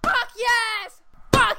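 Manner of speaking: high, loud sweary cheer; real fan's celebration; exultant scream. Real, not acted. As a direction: scream it in triumph. Celebrating a tying goal.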